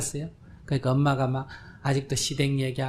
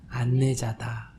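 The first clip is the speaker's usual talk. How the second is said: slow; much slower than usual. Shown as a demonstration. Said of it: "뭐라 그래요?".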